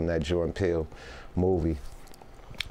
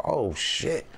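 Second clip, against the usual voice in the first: higher-pitched retold "whoa" reaction; impressed surprise; 6 semitones higher than usual. Rapper recalling the band first hearing the producer, impressed surprise. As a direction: re-enact being pleasantly floored.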